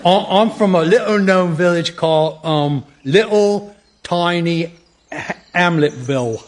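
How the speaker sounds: halting, wandering fake English accent; badly faked English accent that slips about; shifting fake accent. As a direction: grope slowly through a phoney English accent. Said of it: "this unique accent, which keeps changing".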